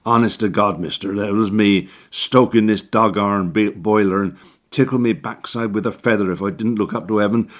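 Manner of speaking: fast, pleading dialect excuse; cockney handyman. Acted. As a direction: spin the tall tale innocently. Orton's excuse.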